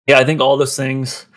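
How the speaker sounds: breathless, sighing between words; out of breath. Real, not acted. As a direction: talk while short of breath. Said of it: "I'm, like, running out of breath".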